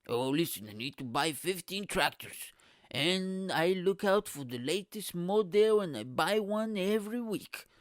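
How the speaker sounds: mock tractor enthusiast. Farmer boasting about weekly tractor buying, in a mocking put-on voice. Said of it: "how many tractors do you need".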